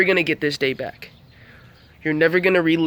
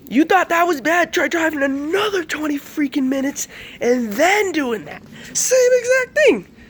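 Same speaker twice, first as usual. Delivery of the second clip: teasing; 11 semitones higher, slower than usual. Retold or imitated. Teasing dad about the drive.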